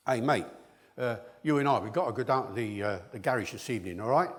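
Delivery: light Cockney with stress-timed lilt; lightly Cockney, strong and weak beats alternating; traditional Cockney. Shown as a demonstration. Lecturer showing what East End guys don't say, traditional Cockney. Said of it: "do not say to each other".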